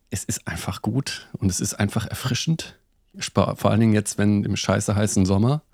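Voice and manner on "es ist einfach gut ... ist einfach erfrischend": soft unvoiced whisper. Real, not acted. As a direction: whisper it like a secret. Whispered praise of gin.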